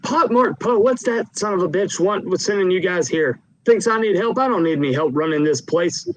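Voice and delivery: a brash boss who scoffs at the idea of needing help; blustery loud boss. Acted. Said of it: "always kind of almost be talking at a loud voice".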